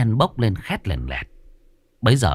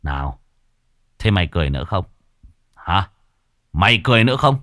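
menacing taunt; faster than usual. Acted. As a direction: lean in and threaten. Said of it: "lập tức đổi giọng". (đổi giọng hăm dọa)

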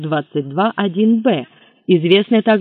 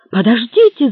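loud, high cry of "wait!"; shouting; 7 semitones higher, 6 dB louder than usual. A narrator's reading. Lafayette cries out over the phone, loud and high. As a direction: call out sharply to stop him. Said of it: "закричал Лафайет".

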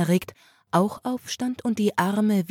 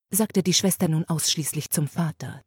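usual speaking voice

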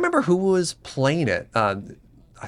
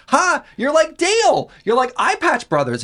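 mock teasing; 12 semitones higher than usual. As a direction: tease like a gleeful crowd, pitched way up. Mimics people teasing a streamer.

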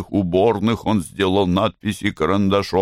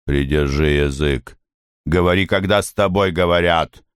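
lower, cold haughty contempt; 4 semitones lower than usual. Acted. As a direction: look down on him and dismiss him. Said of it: "Белла высокомерно".

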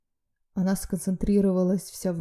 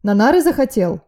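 loud, higher barking rebuke; angry bark; 5 semitones higher, 9 dB louder than usual. A narrator's reading. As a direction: bark at him to snap out of it. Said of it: "рявкнул он". (гневный рявк)

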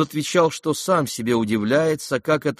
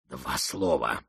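very low, soft, secretive voice; low murmur in the ear; 8 semitones lower, 7 dB quieter, slower than usual. A narrator's reading. Another man at the prince's other ear, murmuring low. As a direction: murmur it deep and close. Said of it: "прошептал другой голос в другое ухо".

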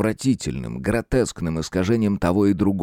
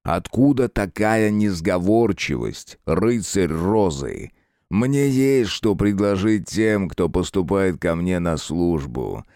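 slow, angry demon lord; mildly wrathful sinister ruler; dark lord; slower than usual. Acted. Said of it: "Темнейший гневливо продолжал".

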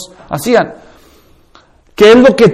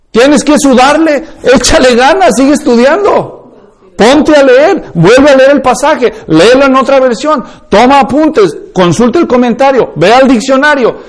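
rally them to put in the work; coach-like rising push to study; urgent exhortation; 4 semitones higher than usual. Real, not acted. Urging hard study.

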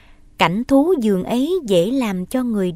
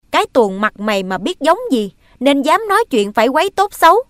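scornful retort; 4 semitones higher, 5 dB louder, faster than usual. Acted. Stepmother scorns the boy.

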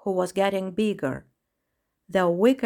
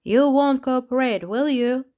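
higher, louder irritated questioning; 6 semitones higher, 4 dB louder than usual. A narrator's reading. Peacock interrogates the uncooperative clown, irritated. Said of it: "flopped his wings with irritation".

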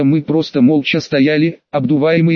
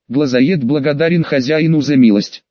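quiet lisping creature. Acted. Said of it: "тихо проговорила слегка шепелявым голосом".

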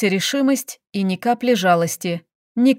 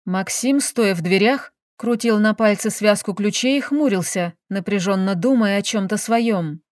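ordinary delivery, nothing marked

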